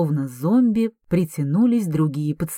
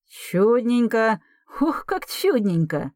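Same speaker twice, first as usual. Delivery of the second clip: high, slow gleeful cry; delighted exclaim; 4 semitones higher, slower than usual. Acted. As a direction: savour the good news. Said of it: "воскликнул Герман Степанович". (радостное восклицание)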